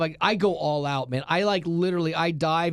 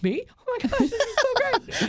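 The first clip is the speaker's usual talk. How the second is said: giddy excitement. Retold or imitated. Excited reaction to invite.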